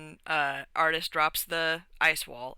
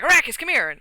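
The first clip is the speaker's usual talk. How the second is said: high, loud summons; acted-out holler across the room; calling out; 8 semitones higher, 6 dB louder, faster than usual. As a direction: call a companion over. Acting out calling a companion over.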